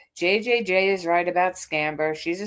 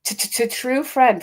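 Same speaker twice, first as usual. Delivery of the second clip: mocking stutter; 5 semitones higher, 4 dB louder than usual. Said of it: "that's how she's gonna say it".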